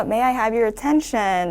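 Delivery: slow reading with weight on "attention"; stressed attention. Shown as a demonstration. Teacher modelling the announcement opening for students, stress on attention. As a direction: press "attention" and read it slowly. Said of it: "내려주고 please 이렇게 뒷부분에서만 살짝 끌어올려".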